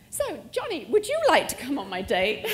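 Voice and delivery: laughing invite. Retold or imitated. Asking Johnny on a date.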